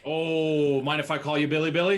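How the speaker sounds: playful character voice. Acted. Grum teasing the warrior about his name, high and loud. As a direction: tease him with a nickname. Player voicing Grum cheekily.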